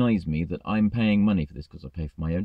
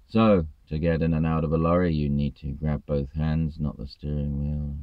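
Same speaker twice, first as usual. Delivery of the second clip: a lightly voiced dreary lecturer reading his script; droning trainer; 4 semitones lower than usual. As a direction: mimic the bored trainer's monotone. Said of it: "the next sentence would go like that".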